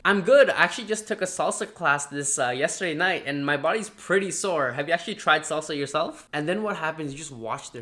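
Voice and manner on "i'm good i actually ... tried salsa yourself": chatty upbeat answer; friendly engaged reply. Shown as a demonstration. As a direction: share a story to warm them up. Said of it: "I usually like to say things like".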